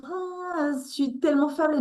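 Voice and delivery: high, fast mock whimper of weakness; breathy pretend helplessness; mock helpless sigh. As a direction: play the fragile damsel, lightly mocking. Mocks a weak, needy woman.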